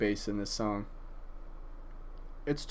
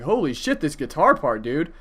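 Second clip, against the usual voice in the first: mock excitement; 4 dB louder than usual. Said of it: "It's not like".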